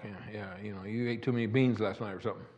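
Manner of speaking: wife teasing. Retold or imitated. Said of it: "She kinda looked at me like".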